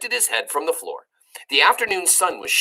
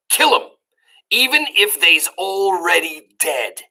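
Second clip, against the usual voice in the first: cook's motto; 3 semitones higher than usual. Acted. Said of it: "That's the title".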